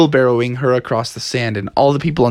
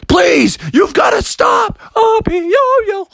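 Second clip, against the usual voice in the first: much higher loud begging; pleading cry; 4 dB louder, slower than usual. Acted. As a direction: beg desperately to stop. Monster begs him to stop.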